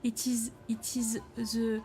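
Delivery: light mock French accent for the cat; a hint of a French accent on a whiny cat. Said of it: "I'm gonna give him a French accent".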